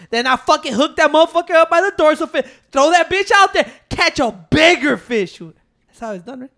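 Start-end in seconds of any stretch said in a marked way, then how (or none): 0.1-5.4 exasperated retort. Retold or imitated. Explaining bait to doubters, exasperated.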